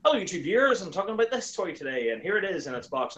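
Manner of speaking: early presenter voice. Retold or imitated. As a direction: play your younger self hosting a review. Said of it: "I'd hit record and go".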